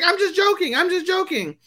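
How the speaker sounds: very high-pitched imitation of backtracking; mock protest. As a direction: squeal the excuse in a put-on high voice. Acted backtracking after dirty answer.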